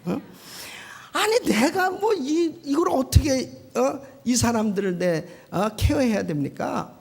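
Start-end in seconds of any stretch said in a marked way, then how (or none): 1.1-6.9 exasperated complaint. Retold or imitated. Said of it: "너무 화딱지 나니까".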